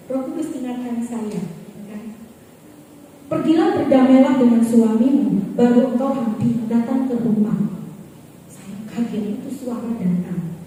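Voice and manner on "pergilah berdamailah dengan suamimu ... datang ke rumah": loud, firm divine command; a loud rebuke from the Holy Spirit. Retold or imitated. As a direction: proclaim it like God speaking from above. Holy Spirit rebukes her, quoted.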